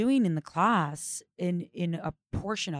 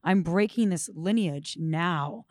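slow, emphatic resolve; mild ferocity; 4 dB louder, slower than usual. Acted. Woman vowing to end a family pattern, with understated ferocity. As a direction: declare it firmly, word by word. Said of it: "a ferocity of".

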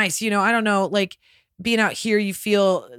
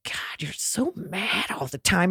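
retold son; 3 semitones lower, 6 dB quieter, slower than usual. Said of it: "my son will be like".

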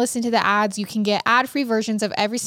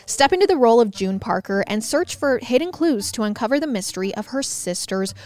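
ad read. Acted. Host reads game ad.

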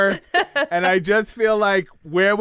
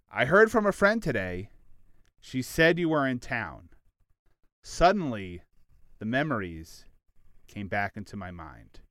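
soft, fading recital of the lyrics; reading lyrics aloud; 7 semitones lower, 5 dB quieter than usual. Shown as a demonstration. Host reading a song's lines to listeners, softly fading. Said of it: "Janet says to us, the listener".

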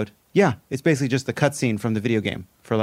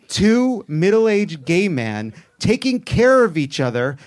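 rising, slowed gush over the words; hammed-up swooning praise; mock-earnest gushing rant; 4 semitones higher, 3 dB louder, much slower than usual. Gushing rant about love story.

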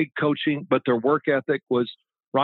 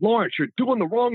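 Bill screaming; 8 semitones higher than usual. Retold or imitated. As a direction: imitate a coach yelling from the sideline. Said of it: "And Bill screaming at him".

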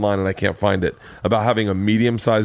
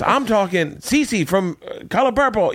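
Ralphie impression; 10 semitones higher than usual. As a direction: stretch out the bit in a raised comic voice. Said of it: "he was just".

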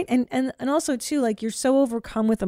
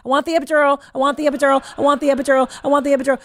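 higher, louder mock pleading, over and over; hammed-up insistent begging for the epidural; retold demand; 6 semitones higher, 6 dB louder, much faster than usual. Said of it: "And I was like".

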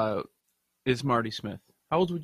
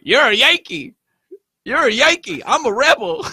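louder mock taunt of a boastful Southern kid; 5 semitones higher, 8 dB louder than usual. Retelling a Southern boy taunting him on spring break, loud mock jeer. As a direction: play the beach kid jeering at the Yankee. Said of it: "some kid from the South".

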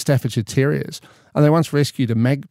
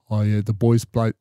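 attempted Afrikaner rugby player accent; thick Afrikaner accent; 3 semitones lower than usual. Man imitating an interviewed rugby player, thick Afrikaner accent. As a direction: have a go at a South African accent. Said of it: "very thick Afrikaner accent".

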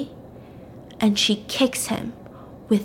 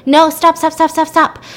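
pleading; 6 semitones higher, 6 dB louder than usual. Retold or imitated. Begging while being strangled.

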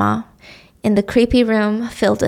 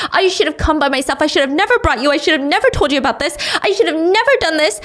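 a touch of rising panic, higher; mild panic; 6 semitones higher, faster than usual. Acted. Mom panicking to Sonny outside the house, mildly higher. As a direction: spiral into regret. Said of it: "full-blown panic attack".

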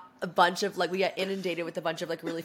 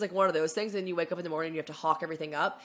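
usual speaking voice

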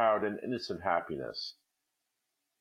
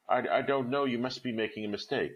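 stammered; 5 semitones higher than usual. Acted. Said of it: "she stammered".

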